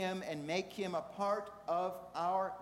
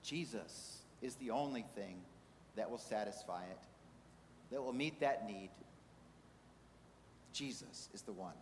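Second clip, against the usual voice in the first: lower, softer sermon delivery; hushed preaching; 7 semitones lower, 7 dB quieter than usual. Real, not acted. Preacher telling congregation what satisfies their hunger, hushed preaching. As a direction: bring it down to a solemn, quiet assurance.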